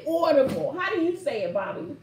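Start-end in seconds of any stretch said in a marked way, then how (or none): 0.1-0.8 Brooklyn accent. Real, not acted. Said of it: "That's the Brooklyn accent".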